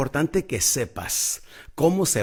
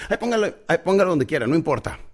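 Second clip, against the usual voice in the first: breezy brush-off; 4 semitones higher than usual. Retold or imitated. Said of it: "le dices".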